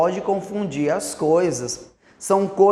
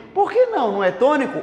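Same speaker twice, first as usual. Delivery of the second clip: puzzled student; 5 semitones higher, much faster than usual. Acted. Teacher voices an objecting student.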